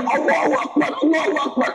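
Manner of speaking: high, thin joyful Allahu Akbar; a blind man who can suddenly see cries out for joy; ecstatic cry. Retold or imitated. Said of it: "Dia teriak".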